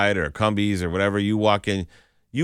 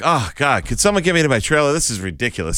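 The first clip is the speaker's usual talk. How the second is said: put-on exasperated star, unaccented; 6 semitones higher, 4 dB louder, faster than usual. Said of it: "she was speaking perfectly good English".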